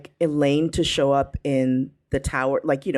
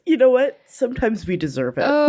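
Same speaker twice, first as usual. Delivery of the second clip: excited; 6 semitones higher than usual. Acted. Laughing mock self-deprecation.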